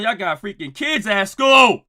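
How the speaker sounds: slow, loud scold; scolding shout. Real, not acted. Host yelling at chat that they have kids at school. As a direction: tell them off, drawn out.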